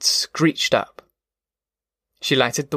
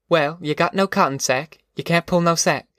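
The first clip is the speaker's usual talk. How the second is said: lightly voiced mother, higher pitch; Ma, objecting; 5 semitones higher than usual. Ma arguing with her daughter about going, mildly objecting. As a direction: object in lightly acted dialect.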